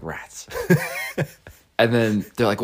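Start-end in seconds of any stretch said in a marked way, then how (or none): 0.0-0.5 a tiny, dejected mock "rats" under the breath; deflated. Retelling the shop's no to his friend, softly deflated. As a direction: let it fall flat and soft, mildly defeated. Retold deflated reaction at shop.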